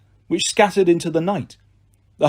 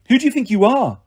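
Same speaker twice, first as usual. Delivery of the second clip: angry challenge; 7 semitones higher, 3 dB louder than usual. A narrator's reading. Zoe angrily confronts Percy.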